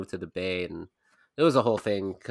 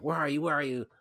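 dog's voice; 4 semitones higher than usual. Pretend. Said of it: "You know, in dog bark".

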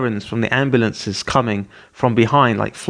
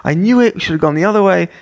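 high-pitched, hammed-up panicked complaint; mock frantic outburst; freaking out; 10 semitones higher than usual. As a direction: retell a meltdown in a high, frantic whine. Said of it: "I'm, like, freaking out".

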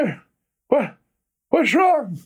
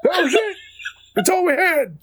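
back in my day rant. Acted. Old man rant continues.

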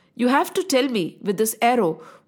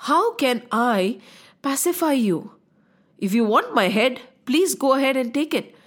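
humble apology. Acted. Young prince pacifies the angry sage over the bow, humble and calm. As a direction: reason with him gently and unhurriedly.

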